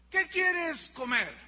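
put-on parent asking child. Parent offers child a choice of food, slow coaxing question. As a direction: put it to the child slowly and clearly. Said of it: "y dile".

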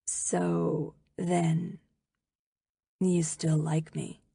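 low, soft, halting question. A narrator's reading. Peter close to the girl, asking if she likes him, low voice. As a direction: ask it low and hushed, with pauses. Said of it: "In a low voice, he says".

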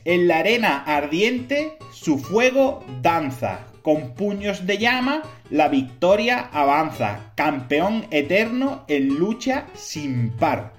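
slow, solemn riddle verse; poem recitation. Acted.

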